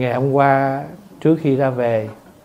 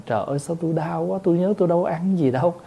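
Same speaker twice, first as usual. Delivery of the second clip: higher, softer, hurried mock moan; mock puzzled complaint; 5 semitones higher, 4 dB quieter, much faster than usual. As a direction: lightly act out a baffled sufferer's complaint. Acting out a puzzled sufferer complaining. (giả giọng than thở thắc mắc)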